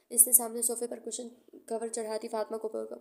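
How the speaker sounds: ordinary delivery, nothing marked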